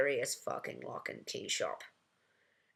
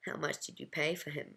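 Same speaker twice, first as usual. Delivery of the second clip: put-on lightly Russian-accented question; softly put-on Russian accent; bad Russian accent; 4 dB quieter than usual. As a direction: ask it in a mock Russian accent. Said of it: "doing the bad Russian accent".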